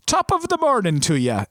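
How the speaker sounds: a hammy stage Irish accent, played for laughs; deliberately bad Irish accent. Shown as a demonstration. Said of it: "in a bad Irish".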